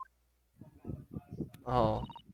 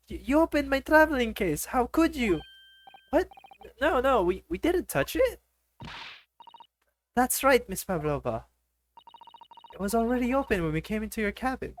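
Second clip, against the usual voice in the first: indignant woman voice; 10 semitones higher than usual. Acted. High woman's voices in a quarrel.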